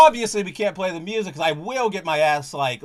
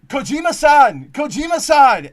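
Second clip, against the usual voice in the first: loud, high yell across the street; drawn-out excited fan holler; re-enacted yelling; 8 semitones higher, 10 dB louder than usual. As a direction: shout the name to catch someone's attention. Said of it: "I start yelling".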